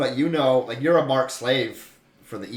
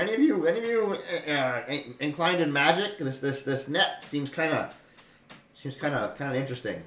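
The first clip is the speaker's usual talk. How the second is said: a lightly raised, curious halfling asking around; 3 semitones higher than usual. Acted. Halfling to the captives, lightly voiced and curious. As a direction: perk up and ask who knows magic.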